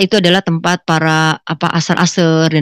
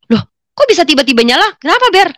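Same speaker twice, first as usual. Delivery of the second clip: higher-pitched surprised questioning; startled in-laws' question; 8 semitones higher, 4 dB louder than usual. Retold or imitated. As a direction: voice the baffled in-laws, pitch jumping up. In-laws startled that the car starts.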